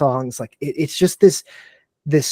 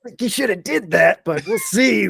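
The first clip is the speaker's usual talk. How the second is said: wry doubtful aside; 7 semitones higher than usual. Retold or imitated. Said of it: "I'm sitting here like".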